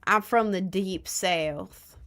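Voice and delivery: slow, drawn-out mock Southern drawl, rising at the end; mock Southern accent. Joking to chat about her real voice, slow mock Southern drawl. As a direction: stretch it out in a put-on Southern accent. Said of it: "in a deep Southern accent".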